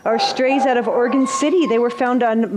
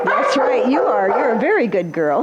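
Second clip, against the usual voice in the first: talking to a dog; 2 semitones lower than usual. Real, not acted. Praising the dog.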